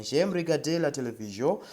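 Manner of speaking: "J'aime regarder la télévision" modelled as a French sentence; French pronunciation. Shown as a demonstration. Teacher repeats the model for learners, "J'aime regarder la télévision" pronounced in French. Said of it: "That's how you pronounce that".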